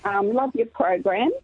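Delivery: hoarse croaky voice. Real, not acted. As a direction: speak with a croaky throat. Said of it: "Apologies for my croaky voice".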